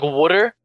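"water" said as "wooder", with a d in the middle; Philadelphia pronunciation. Shown as a demonstration. Guest spells out his accent for host, Philadelphia pronunciation. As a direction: say "water" to rhyme roughly with "should-er". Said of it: "kinda like that".

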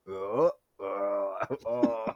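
low, soft staccato uh uh uh grunts; lightly done hurt grunting; mock pained grunts. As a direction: imitate a brute grunting after a hit. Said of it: "him just making ... funny faces".

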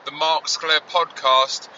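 crackly distorted audio from the car; distorted car phone line; distorted noise. Real, not acted. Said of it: "distorted noise".

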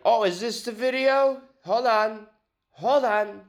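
very high put-on voice; high mock exclaiming; acted character voice. Acting out someone reacting to video.

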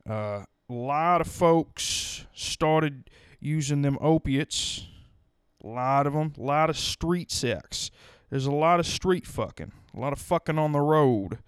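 rambling small-town sheriff voice; lightly voiced folksy lawman; town drunk. Plays a rural sheriff character.

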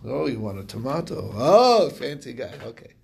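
sniffy, mock-posh scoffing; lightly imitating a haughty scholar. Rabbi scoffs at a guest's fancy word, mock haughty. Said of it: "little bit of haughtiness in here".

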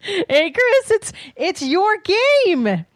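high, loud and laughing; laughing teasing. Real, not acted. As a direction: tease him while laughing. Teasing co-host about the trailer.

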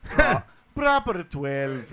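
slow, drawn-out attempt at an Irish accent; amateur Irish accent, said slowly; Irish impression. Shown as a demonstration. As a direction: stretch it out in a put-on Irish brogue. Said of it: "That was my best Irish impression".

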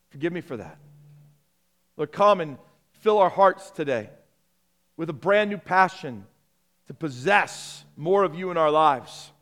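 congregational prayer. Real, not acted.

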